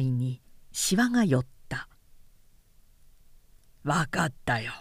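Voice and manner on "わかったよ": softer, smiling give-in; 微笑みながら、穏やかに. A narrator's reading. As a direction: concede gently with a smile. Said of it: "と甲斐は微笑した".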